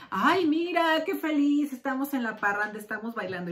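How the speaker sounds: hammed-up fake cheer with a forced laugh; mock happy. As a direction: play the fake happy couple posing for photos. Fake happiness posted in public. (felicidad fingida y exagerada con risa forzada)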